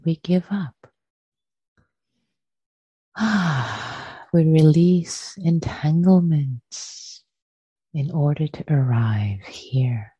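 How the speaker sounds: unhurried guiding voice with long pauses between phrases; guided meditation. Real, not acted. Teacher settles friends into shared practice, guided meditation. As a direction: ease listeners into stillness, phrase by phrase.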